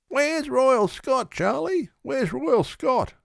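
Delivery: very high, slow, agonised cry; anguished scream. A narrator's reading. Friend screaming in agony for his horse, very high and slow. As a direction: plead for news of the horse. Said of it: "screams one of his friends in agony".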